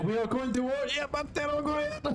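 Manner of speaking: put-on high-pitched comic Irish accent. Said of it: "anything in an Irish accent is hilarious".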